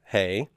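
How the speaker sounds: "hey" with a light, breath-only H; soft English H. Shown as a demonstration. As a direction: say "hey" softly, no throat rasp on the H. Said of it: "just like the way you do a, an, an H in English".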